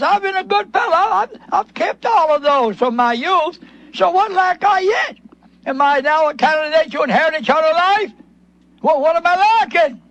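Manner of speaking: a hint of a smug young man; self-righteous ruler. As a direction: boast your goodness, then ask. Voices self-righteous rich ruler.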